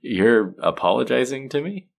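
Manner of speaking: astonished that they would apologize; incredulous question. Acted. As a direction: ask it in amused disbelief. Villain astonished by sidekick's apology.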